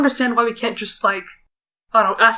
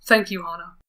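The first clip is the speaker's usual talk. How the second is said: quiet thanks; 4 semitones lower, 5 dB quieter than usual. Acted. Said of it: "I heard him say".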